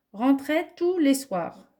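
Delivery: lifted, slowed "rentrait tous les soirs" read out like a dictation; careful, deliberate dictation of "rentrait tous les soirs". Shown as a demonstration. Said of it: "on va faire un essai".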